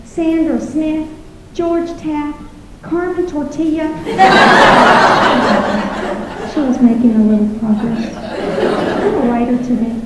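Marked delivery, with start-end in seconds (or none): 0.0-3.9 higher, slow mock roll call; hint of a teacher's roll-call voice; teacher reading roll. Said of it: "She went down the list". 3.9-6.5 breathy laugh. Real, not acted. Laughs at own punchline.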